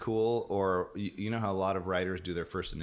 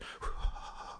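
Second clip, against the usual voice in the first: long airy breath out; imitated dog breathing; 6 dB quieter than usual. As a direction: huff like an old dog. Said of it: "like, breathing in my face".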